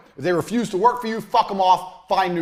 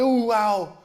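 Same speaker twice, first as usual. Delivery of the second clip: giddy mock wow; 5 semitones higher than usual. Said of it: "Don't be like".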